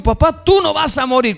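high, insistent denial; urgent protest. Retold or imitated. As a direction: refuse to let him talk of dying. Son protesting to dying father.

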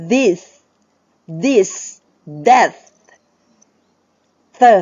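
"this", "that", "the" as isolated words with a dental TH; touch tongue to teeth on "this", "that", "the". Shown as a demonstration. Teacher drilling TH words one by one, "this", "that", "the" with tongue on teeth. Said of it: "มันต้องเอาลิ้นไปแตะฟัน".

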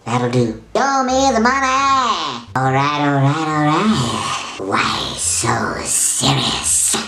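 squeaky voice after sucking helium; chipmunk-like helium squeak. Real, not acted. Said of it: "as my voice gets squeaky".

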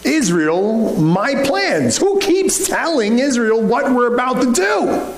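high, slow, angry cry of a furious king. Acted. Syrian king demanding who betrayed his plans, furious. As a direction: rage at the hidden traitor. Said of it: "he was furious".

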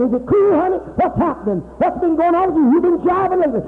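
jive street talk. Retold or imitated. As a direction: chat her up like a street hustler, loose and breezy. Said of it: "If I start talking like that".

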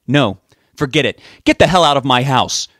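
loud, furious order; angry yell. A narrator's reading. Richard throws Rob out, yelling. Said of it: "Richard yelled at Rob as he stood up".

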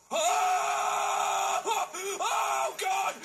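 panicked cries of fright; frightened shriek. Real, not acted. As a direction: scream out in real panic. Scared by monster in game.

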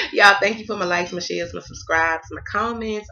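real emotion, fighting not to cry; holding back tears. Real, not acted. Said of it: "Y'all know I'm not gonna cry".

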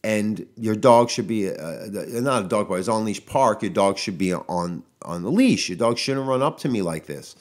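firm retort. Retold or imitated. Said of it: "I said, I was like".

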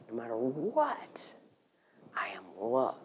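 breathy intimate whisper to the room; hushed whisper. Real, not acted. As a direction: whisper it like a secret truth. Intimate climax of spiritual talk.

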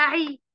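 عي said as throaty ain plus a short i; a teacher sounding out عي for pupils; ain with kasra. Shown as a demonstration. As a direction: model عي with lips spread. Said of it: "باخد حركة واحدة".

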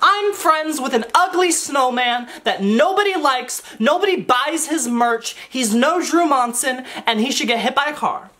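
sweet princess voice saying mean things; a hint of a Frozen princess; Frozen princess impression. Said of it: "I can try to do an impression of her".

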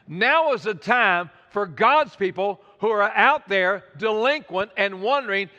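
measured, insistent repetition; emphatic repeat. Real, not acted. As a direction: drive the point home, spacing it out. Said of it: "Maybe I should repeat that".

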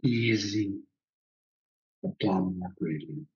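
calm, unhurried phrases with long pauses; guided breathing meditation. Real, not acted. Teacher guiding students to just follow the breath, calm meditation voice. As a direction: guide them gently into watching the breath.

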